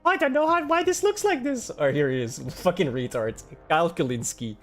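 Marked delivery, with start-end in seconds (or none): 0.0-1.7 mocking the pundit. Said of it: "the fucking tweet where he's like".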